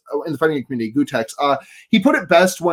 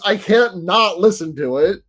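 Linus voice. Pretend. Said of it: "Linus voice".

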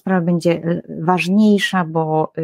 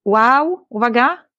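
mock alarmed warning; 4 semitones higher, slower than usual. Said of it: "Pan Bóg mówi".

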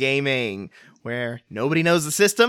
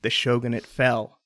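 story narration. Acted. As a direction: set the scene like an epic tale. Game master's scene setting.

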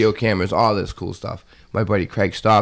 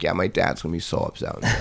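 mock drunk mumble; 4 semitones lower, 6 dB quieter than usual. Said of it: "the guy was like".

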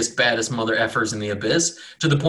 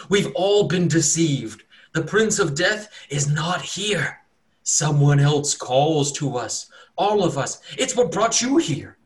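higher, slow, intense warning; urgent cultist; 5 semitones higher, slower than usual. Acted. Cultist urgently warning the cleric of a false prince. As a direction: make him believe it.

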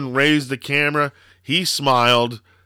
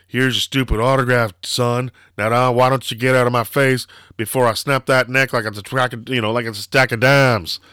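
mock-menacing threat, a bit louder; louder retold threat; 5 dB louder than usual. Stone Cold threatening the autograph kid, mock menace. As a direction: growl it like a tough guy threatening a kid. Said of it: "he was like".

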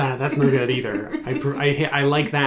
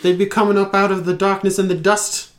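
higher-pitched mock-Scottish dwarf; Scottish dwarf accent; 5 semitones higher, 3 dB louder, faster than usual. Shown as a demonstration. Game master's dwarf warning of intruders, Scottish accent. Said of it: "Scottish accent for the dwarf".

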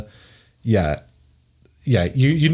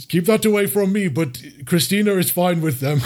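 squeamish troll; 6 semitones higher than usual. Acted. Troll recoils from the mouse.

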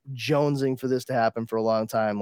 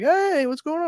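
buddy greeting. Retold or imitated. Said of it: "he's like".

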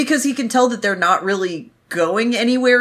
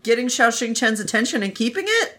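put-on squeaky, bratty little girl. Voicing bratty Ah Ching.

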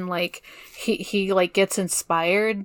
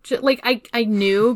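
ordinary delivery

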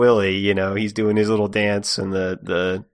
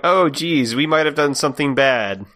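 sheepish heroes; 6 semitones higher, 3 dB louder than usual. Retold or imitated. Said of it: "they're like".

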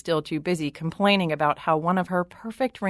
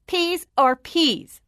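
high, loud and slow tantrum shout; spoilt shout; 10 semitones higher, 4 dB louder, much slower than usual. A narrator's reading. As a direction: stamp it out like a furious little princess. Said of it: "the princess shouted".

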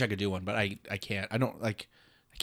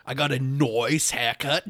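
put-on Aussie with "noice" for nice; playful Australian twang; mock Australian accent. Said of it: "they pronounce all their I's like an oi".

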